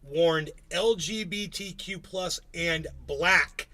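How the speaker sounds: slow, deliberate news read; slow headline read. Shown as a demonstration. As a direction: read the headline slowly and clearly. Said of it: "I could say that a few more times".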